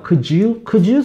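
gentle polite question, rising. Shown as a demonstration. Teacher shows the polite way to ask, gently. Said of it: "굉장히 공손하게 표현이 되잖아요".

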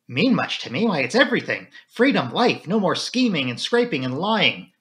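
excited rush of relief; excited outburst. Acted. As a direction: pour it out with mounting passion. Flora bursts out about freedom.

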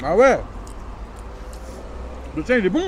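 chewing while talking; talking between bites; mouth full. Real, not acted. Seen 0: Bites taco at -3s, jaw still chewing while speaking, taco in hand.

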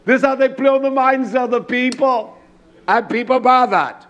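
impassioned, driving sermon delivery; full-force preaching. Real, not acted. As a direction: preach it out with punched key words.

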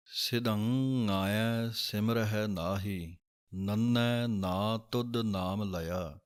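slow, careful Gurbani line reading; slow recitation. Shown as a demonstration. Teacher reciting a scripture line slowly. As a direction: recite each word slowly and clearly. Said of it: "ਇਸ ਸ਼ਬਦ ਦੇ ਆਪ ਜੀ ਦਰਸ਼ਨ ਕਰੋਗੇ".

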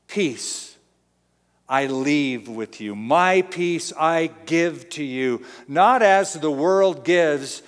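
slow, deliberate reading of the verse; scripture reading. Acted. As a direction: read each phrase slowly, with weight. Reads the verse slowly.

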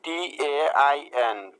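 টিএআইএন ধীরে অক্ষর ধরে; বানানটি টেনে টেনে পড়ুন; slow letter spelling. Shown as a demonstration. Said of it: "এর পরের শব্দটি খেয়াল করুন". (ধীরে ধীরে বানান বলা)

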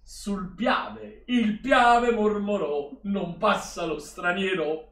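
slow, grand delivery like a history lesson; mock-solemn recital. Streamer hamming up World War history about Austria. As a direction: deliver it like a pompous schoolbook.

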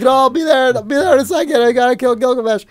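high, loud hurried brush-off; frantic brush-off. Retold or imitated. Gamer to his wife calling him to bed, frantic brush-off. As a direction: wave her off, too absorbed to stop. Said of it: "And I'm just like".

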